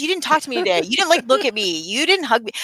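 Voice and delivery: needy friend begging for reassurance; anxious neediness. Retold or imitated. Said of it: "I'm all like".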